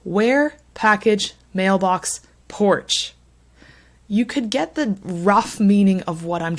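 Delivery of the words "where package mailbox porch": "where", "package", "mailbox", "porch" one by one, each stressed; stressed words only. Shown as a demonstration. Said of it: "just say those words".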